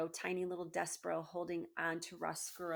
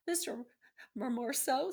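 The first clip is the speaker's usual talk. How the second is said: mild mock crying; 7 semitones higher, 5 dB louder than usual. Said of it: "he was crying now".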